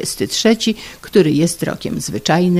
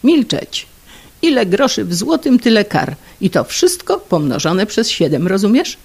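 wife's tirade; 4 semitones higher than usual. Acted. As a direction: silence him and rage on. Wife shouting.

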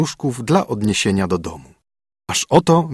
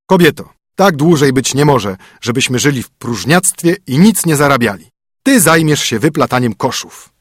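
a bit louder, commanding husband; brisk, bossy husband; stern husband; 3 semitones higher, 4 dB louder than usual. Acted. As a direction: lay down the rules to the spoiled princess. Husband voice again.

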